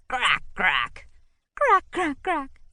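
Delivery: laughing crack, crack. A narrator's reading. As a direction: giggle the cracks out. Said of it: "they both cracked up".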